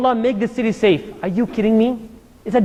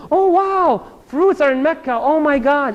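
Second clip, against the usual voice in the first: mock excitement; 5 semitones higher, slower than usual. Imitating excited forgetful listener.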